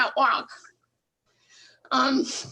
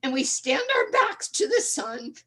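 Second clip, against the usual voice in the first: earnest, measured poem reading; spoken-word recital, solemn then rising. Acted. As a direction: read it like a heartfelt protest poem. Reads her own poem aloud.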